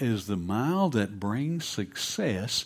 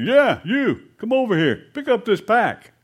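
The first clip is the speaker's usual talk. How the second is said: loud, raised-pitch military command; barked order; 8 semitones higher, 7 dB louder than usual. Acted. Soldier telling a farmer to pick up his pack, barked order. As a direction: order him over like a soldier.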